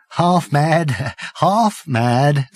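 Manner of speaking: manic, laughing insistence; a half-crazed man insisting, with a laugh; raving insistence. Acted. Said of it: "the man insisted as they carried him raving aboard".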